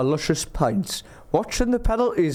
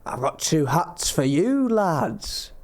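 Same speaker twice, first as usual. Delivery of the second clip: put-on barely-there Scottish accent, slowly; slower than usual. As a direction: attempt a Scottish accent that hardly shows. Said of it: "When's the Scottish accent gonna start?".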